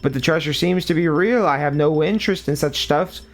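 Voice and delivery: lightly voiced gloating villain. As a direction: read it as a smug ghost. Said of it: "trying to do a stupid voice".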